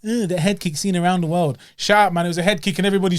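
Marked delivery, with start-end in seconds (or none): 0.1-1.6 a sneering mock of bored pundits; mocking the dry ones. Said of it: "You know them dry".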